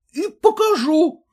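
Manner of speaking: lightly voiced stubborn husband; a hint of a sulky threat; voiced husband affirming; confirming husband. A narrator's reading. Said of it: "подтвердил он".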